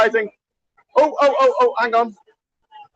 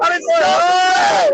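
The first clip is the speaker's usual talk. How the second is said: excited greeting; 6 semitones higher, much slower than usual. Real, not acted. Greeting friends met online.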